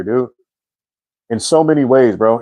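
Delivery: ordinary talk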